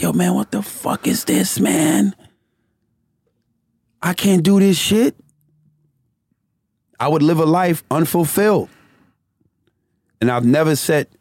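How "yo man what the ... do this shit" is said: pitched-up exasperated quote; fed up, half laughing at himself; higher, exasperated. Retold or imitated. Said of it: "I was like".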